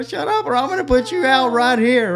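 high-pitched mock yell; retold yelled threat. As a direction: reenact an exasperated dad's threat. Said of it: "screaming at the top of his lungs".

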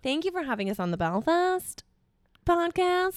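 attempted Belfast accent, up and down; nasal Belfast accent. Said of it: "do it a bit more nasally".

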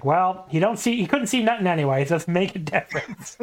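deadpan Heenan quip; lightly imitated dry wisecrack; dry delivery. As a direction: say it dry, no fuss. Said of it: "delivers an incredible line here, very dryly".

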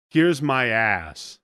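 drawn out, teasing here's my ass; slow mock taunt. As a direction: stretch it out like a playground taunt. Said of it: "I'm gonna taunt you".

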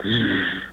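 low, quiet buzzing shake; imitated ground tremor. Man recounting the ground shaking under him, imitated buzz. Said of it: "the ground goes, it shakes".

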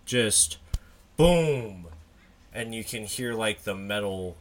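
measured, hushed storytelling with pauses; game master narration. Acted. Game master narrating the final blows to the player, measured storytelling. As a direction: narrate the kill deliberately, letting each image land. I'm gonna narrate what happens.

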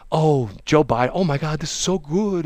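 mock gushing Democrats. Mocking Democrats on plane.

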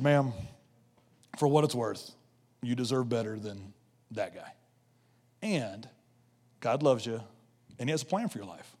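soft, low, tender retelling; hushed, sincere comfort; gentle reassurance. Retold or imitated. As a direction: console her quietly, with pauses between phrases. Consoling the mistreated woman, retold.

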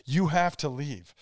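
mildly worked-up fake panic; badly faked touch of panic; acted panic attack. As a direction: stammer through a put-on panic, breaking off. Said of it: "So I start acting out this, like, panic attack".

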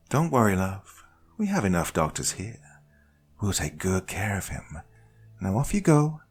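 lightly voiced, sugary calm host; a hint of a smug hostess calming a captive; Judy's voice. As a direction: soothe them falsely, in control. Narrator voices Judy.

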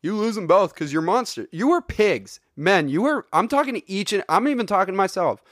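high, hammy tirade against men; outraged rant. Pretend. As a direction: scold them like a preacher gone wild. Mock rant scolding men.

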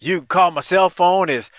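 slow, drawn-out phone number in a retold voice; casual, unhesitating. Coco gives fans his number on air, casual. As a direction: give out the number as if to a buddy. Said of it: "like he was just talking to his boy".

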